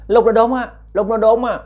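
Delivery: high, loud ghostly cry. Retold or imitated. Ghost recounts cutting tree.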